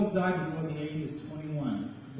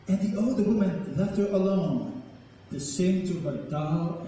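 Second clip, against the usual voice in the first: poetry reading. Acted. Poem read to audience.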